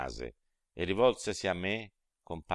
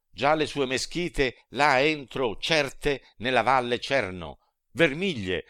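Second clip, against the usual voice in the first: higher, louder, astonished description; awed alarm; 5 semitones higher, 4 dB louder than usual. A narrator's reading. Dante to his master, awed and alarmed, higher and louder. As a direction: point out the burning towers in awe.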